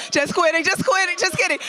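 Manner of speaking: high, mock-stern then laughing off; playful teasing. Real, not acted. Host teasing New Yorkers, playful. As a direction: tease them, then let it go.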